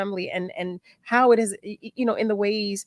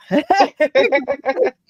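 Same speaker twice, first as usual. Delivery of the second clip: emotional laugh; 6 semitones higher, 8 dB louder than usual. Real, not acted. Host laughs regaining composure.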